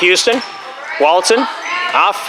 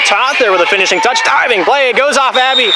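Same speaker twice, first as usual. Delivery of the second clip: excited, higher-pitched rally call; live play-by-play; 5 semitones higher than usual. Real, not acted. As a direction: call the diving save as it happens.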